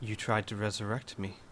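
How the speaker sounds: hushed, measured character line; slow speech. Acted. Newly risen form to those around him, slow and hushed. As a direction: say it slowly and softly, lightly acted. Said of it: "he slowly says".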